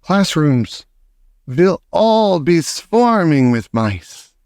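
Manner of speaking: mild triumphant witch shout; lightly triumphant witch. Acted. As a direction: gloat over the plan. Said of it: "shouted the Grand High Witch".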